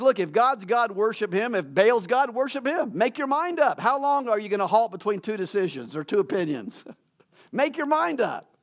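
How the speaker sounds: rising, urgent preacher's challenge; forceful challenge. Acted. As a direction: press them to decide, pitch climbing high. Elijah challenging the people of Israel.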